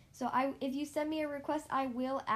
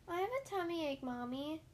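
hopeful; 4 semitones higher than usual. Acted. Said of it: "Hopscotch said hopefully".

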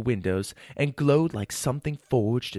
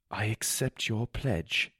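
softer and slower, barely holding up; weakly; 6 dB quieter, slower than usual. Acted. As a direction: accept it with little strength left. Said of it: "I said weakly".

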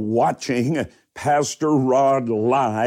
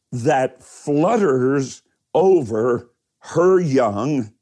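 slow, deliberate Bible reading with long pauses; scripture reading; slower than usual. Acted. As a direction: read the verse out in measured, emphatic phrases. Reads the Bible verse aloud.

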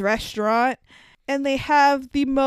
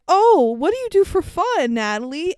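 mock Rod; 5 semitones higher, 4 dB louder than usual. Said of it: "Rod is like".

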